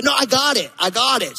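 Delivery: a hint of a stubborn little girl; lightly voiced toddler. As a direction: mildly mimic a child refusing help. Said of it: "she says".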